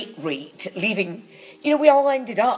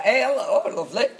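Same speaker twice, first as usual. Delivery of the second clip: playful Northern dame greeting; cheeky pantomime dame; 4 semitones higher than usual. Acted. Dame warming up the panto crowd, cheeky. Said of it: "I could do it as the dame ... cheeky".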